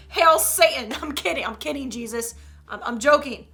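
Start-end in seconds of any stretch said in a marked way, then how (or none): 0.1-0.9 loud mock "Hail Satan"; mock devilish call. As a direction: declare it as a cheeky kid. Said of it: "Just be like".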